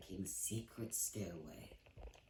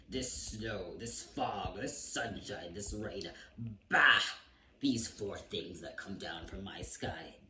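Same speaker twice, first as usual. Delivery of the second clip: shouting king; slower than usual. Acted. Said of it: "he started shouting".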